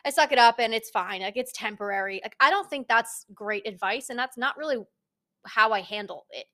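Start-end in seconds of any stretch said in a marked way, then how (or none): 0.0-2.2 mock breezy dismissal. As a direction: toss it off like it's no big deal. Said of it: "it's very easy to just say".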